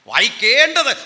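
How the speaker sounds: "വായിക്കേണ്ടത്" punched loud and high; big lifted stress on "വായിക്കേണ്ടത്"; emphatic term. Shown as a demonstration. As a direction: ring out "വായിക്കേണ്ടത്" to the class. Teacher stresses the contrasting term.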